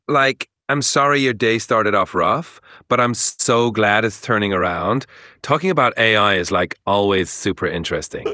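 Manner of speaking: a hint of Valley Girl. Shown as a demonstration. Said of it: "like a Valley Girl".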